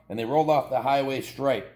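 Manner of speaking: ordinary delivery, nothing marked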